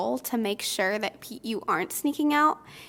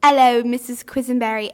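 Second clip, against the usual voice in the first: louder, hammed-up bad British accent; 7 dB louder than usual. Camp patrol guard catching a camper on the porch, bad British accent. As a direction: greet her like a British camp guard, badly faked. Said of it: "I'm gonna do a really bad British accent".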